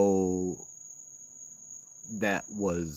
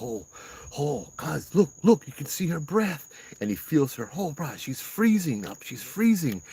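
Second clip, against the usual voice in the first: high, panicky mimic of the startled boyfriend; freaking out; 7 semitones higher than usual. Boyfriend panicking to the guide about his frozen girlfriend, high and alarmed. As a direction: retell his alarm in a raised, urgent voice. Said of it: "he starts freaking out".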